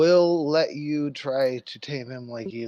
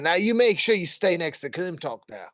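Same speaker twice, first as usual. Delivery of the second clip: mild mock shout, a little higher; called over the shoulder; 4 semitones higher than usual. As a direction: call back a parting order without a full shout. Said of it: "shouts over his shoulder".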